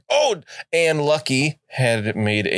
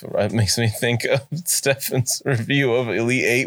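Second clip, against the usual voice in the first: usual speaking voice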